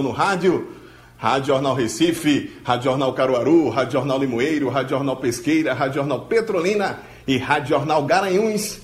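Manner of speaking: upbeat radio host opening the show; radio announcer. Acted. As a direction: read the station list like a broadcaster. Abertura de programa de rádio. (locutor de rádio animado)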